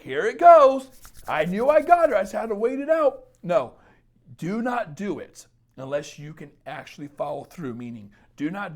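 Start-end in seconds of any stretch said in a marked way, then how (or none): 0.0-3.3 loud, high mocking guy voice; gloating ex. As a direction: crow at her like a smug ex who won. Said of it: "he's like".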